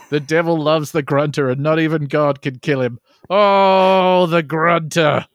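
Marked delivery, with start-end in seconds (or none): 3.3-5.2 dramatic lament. Acted. Dramatic lament about the Grunter.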